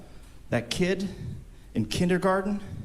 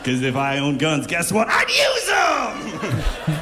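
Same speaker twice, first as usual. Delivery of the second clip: laughing yell; 2 semitones higher, slower than usual. Real, not acted. Comic punchline, laughing yell.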